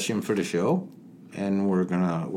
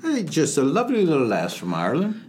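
put-on Irish accent; 3 semitones higher than usual. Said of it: "That's the worst Irish accent I've ever heard".

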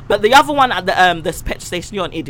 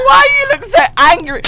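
mock exasperation; 12 semitones higher, 6 dB louder than usual. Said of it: "I'm thinking".

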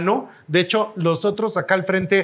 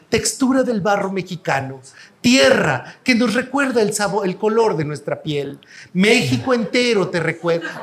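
put-on old documentary narrator. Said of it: "empiezas a hablar como en documental de antes".

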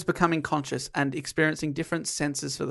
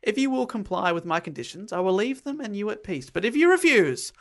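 lightly voiced grand tragic speech; Shakespearean monster; 3 semitones higher than usual. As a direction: declaim it like a stage monster. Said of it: "He now speaks like a Shakespearean character".

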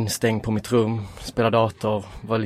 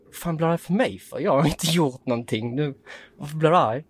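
retold teen anger; 5 semitones higher than usual. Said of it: "först blev jag skitarg".

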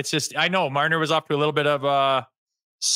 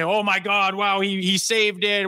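slow, hammed-up amazement; mock fan awe; 4 semitones higher than usual. Host mocking fickle fans celebrating the trade, hammed-up awe. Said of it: "And then they".

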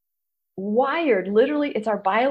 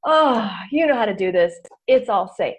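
voicing the brain; 4 semitones higher than usual. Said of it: "our brain says".

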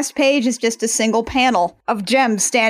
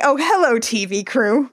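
Minx voice. Retold or imitated. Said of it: "Minx just sort of sticks her head out ... and is like".

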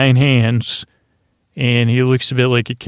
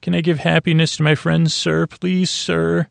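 mocking pleading; 5 semitones higher than usual. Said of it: "it's so sweet asking your captain".

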